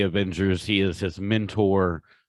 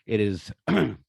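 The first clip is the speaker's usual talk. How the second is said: choking up; 3 semitones higher than usual. Real, not acted. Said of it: "I'm choking up just talking about it".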